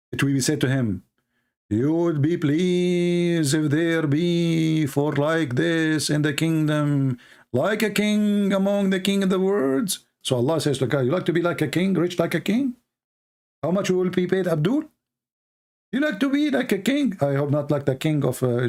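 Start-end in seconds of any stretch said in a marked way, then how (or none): 1.7-10.0 mock solemn offer. 11.0-17.2 higher, sarcastic teasing question; mock teasing. Mocking voice of Allah.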